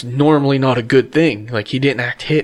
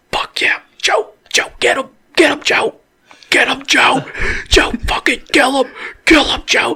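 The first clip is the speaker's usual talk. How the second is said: excited scream done in a whisper; 13 semitones higher than usual. Recounting how they cheered Joe on, retelling a whisper-scream. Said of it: "I'm whisper screaming".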